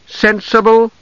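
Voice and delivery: sharp rising question; demanding. A narrator's reading. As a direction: fire it back as a challenge. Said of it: "Tanis demanded".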